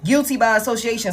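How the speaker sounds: "Guilty by association" with the stress on "Guilty"; emphasis on guilty by association. Shown as a demonstration. To the viewer, stressing "Guilty by association". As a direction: lean hard on "Guilty by association". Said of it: "Heavy emphasis on that guilty by association".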